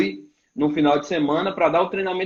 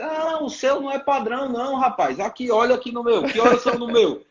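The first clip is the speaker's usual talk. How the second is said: higher, teasing mock scold; imitating the pastor; 5 semitones higher than usual. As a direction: play the pastor needling him about the watch. Pastor mocking his watch. (imitando o pastor, implicando, voz mais aguda)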